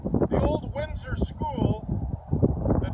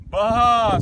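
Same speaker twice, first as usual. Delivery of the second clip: a loud bleating baa; sheep baa; 6 dB louder than usual. Acted. The sheep joins the plan with a loud baa.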